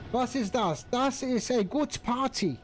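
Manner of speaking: English words in a light hammed-up German accent; a hint of a German accent on the English words; mock German accent. Shown as a demonstration. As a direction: play at sounding German, just lightly. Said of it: "You can speak English with a German accent".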